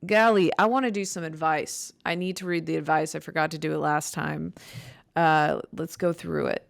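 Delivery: dry, creaky speaking voice; talking with a dry vocal fry. Real, not acted. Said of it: "my voice is so".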